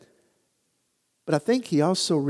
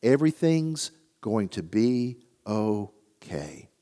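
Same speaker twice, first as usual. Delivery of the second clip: reassuring; 4 semitones lower, 5 dB quieter, slower than usual. Retold or imitated. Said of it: "hear that voice saying to us".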